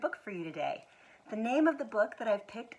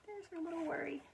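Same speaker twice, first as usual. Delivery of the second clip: quiet aside; 8 semitones higher, 9 dB quieter, faster than usual. Real, not acted. Pointing at picture aside.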